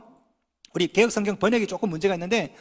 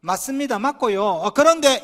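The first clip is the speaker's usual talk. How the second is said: grudging yes-but. Shown as a demonstration. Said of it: "이러면 싸움 나요".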